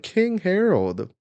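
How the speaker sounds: high, loud, drawn-out call; alarmed cry. Acted. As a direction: cry out for the walloped king, hammed up. Acted followers shocked at beating.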